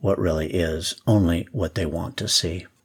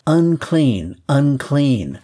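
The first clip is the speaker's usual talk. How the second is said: higher, louder warning cry of unclean; leper's call; 6 semitones higher, 3 dB louder, much slower than usual. Acted. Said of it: "required to call out to passerbys".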